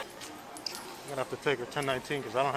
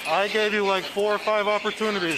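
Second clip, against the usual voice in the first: stern scolding; 4 semitones higher, 4 dB louder than usual. Real, not acted. Scolding arrested woman.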